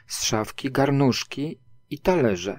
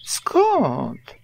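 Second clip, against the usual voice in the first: higher, offhand denial; airy storybook brush-off; feigned nonchalance; 7 semitones higher than usual. A narrator's reading. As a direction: toss it off carelessly. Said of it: "odparł Puchatek niedbale".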